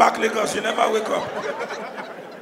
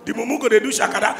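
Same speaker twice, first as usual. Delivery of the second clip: ordinary talk, nothing marked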